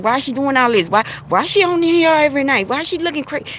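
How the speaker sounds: high, incredulous mock gossip; mocking onlookers. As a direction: ham up the doubters sneering at her. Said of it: "they looking at Noah like".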